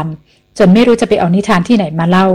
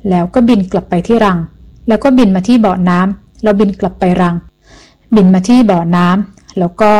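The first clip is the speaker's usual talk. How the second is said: unhurried telling. Acted. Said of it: "อย่างเนิบๆ".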